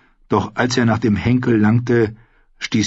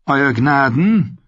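barely getting it out; 6 semitones higher, slower than usual. A narrator's reading. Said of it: "vermochte Tyrion gerade noch hervorzubringen".

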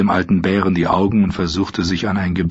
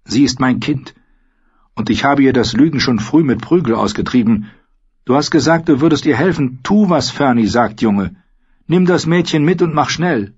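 put-on high-pitched, insistent old woman; old woman's raised, commanding voice; stern old mother; 7 semitones higher, 3 dB louder than usual. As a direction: order the boy about as an old crone.

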